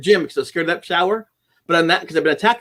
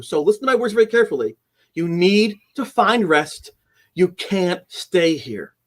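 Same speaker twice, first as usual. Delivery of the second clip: slow, calm reassurance. Retold or imitated. Calming the ghost.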